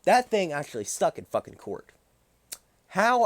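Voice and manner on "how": high, loud disbelieving cry; outraged shout. Real, not acted. Ranting to viewers about the charge sticking, loud incredulous cry. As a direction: fling the word out in disbelief.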